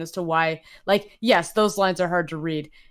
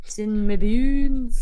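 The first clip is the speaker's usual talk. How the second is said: put-on higher, louder, slow country accent; exaggerated dialect; 5 semitones higher, 5 dB louder, slower than usual. Friend echoing a character stuck in dialect, broad country accent. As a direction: draw out the dialect, hammed-up. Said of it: "I don't know why I go Scottish".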